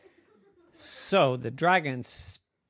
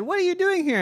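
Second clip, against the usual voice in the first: surprised troll; much faster than usual. Acted. Troll voiced in story.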